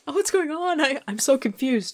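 mock confused voice. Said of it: "It's like".

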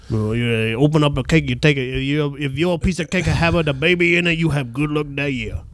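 loose, slurred Creole explaining; mock Creole accent. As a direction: explain it like a cartoon Creole local. Creole voice explains cake custom.

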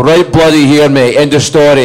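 high, loud comeback with full swagger; triumphant retort. Retold or imitated. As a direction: shout it back as the final word. Answering the heckler triumphantly.

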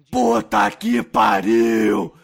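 shouting. Acted. Reading out a listener's excited comment.

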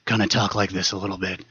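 Batman voice. Shown as a demonstration. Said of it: "this is my Batman".

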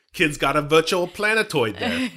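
put-on half-hearted Scottish accent with a laugh; poor Scottish accent. Quoting a comedy film about a big head, weak Scottish accent. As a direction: try a Scottish accent and fail. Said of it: "that was the poorest Scottish accent".

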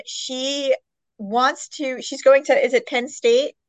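ordinary delivery

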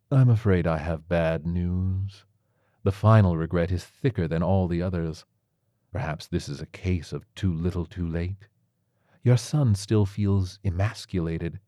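lightly voiced, measured tiger physician; a touch of solemn doctor, unhurried; grave tiger surgeon. Tiger surgeon breaks bad news to his patient, mildly grave.

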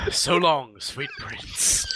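Bruce Campbell. Acted. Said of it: "Bruce Campbell is standing there and just goes".

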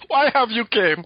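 slow, high, odd Eastern European lilt on Why have you came; hammed-up Janosch voice, drawn out; mock Janosch accent, high and slow; Janosch impression. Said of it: "his Janosch voice from Ghostbusters".

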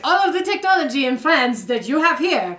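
put-on French accent. French woman defending France's technology, French-accented. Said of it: "do a French accent in this voice".

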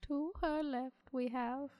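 droning, sad monotone. Acted. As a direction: sound bored and sad. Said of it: "I'm in this monotone voice".

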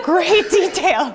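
slow, laughing emphasis. Real, not acted. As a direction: laugh through it, drawn out. Laughing about toenail and GI stories.

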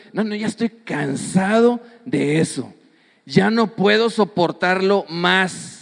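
slow, drawn-out feigned exhaustion; mock weariness. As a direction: pretend you can bear it no longer. Acted believer tired of being blessed. (cansancio fingido, con pausas)

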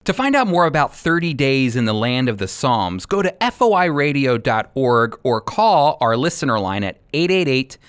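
steady promo read with phone number. Acted. Radio host giving listeners the order line, promo read. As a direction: announce how to order, clear and even.

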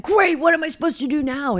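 high-pitched imitation of a flustered racer; hammed-up helpless complaint; mock exasperation. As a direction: whine it in exaggerated frustration. Acted quote of racer losing it.

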